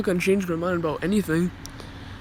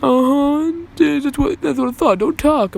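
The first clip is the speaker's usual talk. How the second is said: higher and louder, smug scolding; mock snapping teacher; 6 semitones higher, 5 dB louder than usual. Teacher cutting off the boy's excuse, smug snapping. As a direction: cut him off, smug and sharp.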